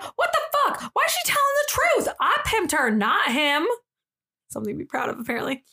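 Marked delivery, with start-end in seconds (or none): 0.0-3.7 high-pitched, incredulous outburst; indignant disbelief. Acted. Zola reacting to Jess telling the truth, indignant. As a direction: rush out the shocked question.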